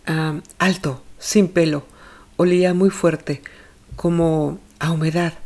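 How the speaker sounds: a hint of a worried mother answering questions; anxious mother. Olga describes the man.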